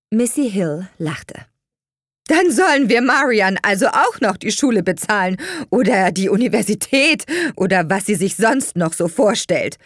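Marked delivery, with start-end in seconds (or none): 2.3-9.8 high, loud sneering mother; scornful. A narrator's reading. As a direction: pile up the options mockingly. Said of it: "fragte sie höhnisch". (höhnisch, hoch und laut)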